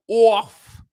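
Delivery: "Off" punched out loud and high; a sharp emphatic "Off"; stressed off. Real, not acted. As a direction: hit the word "Off" hard. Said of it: "the tailoring is off".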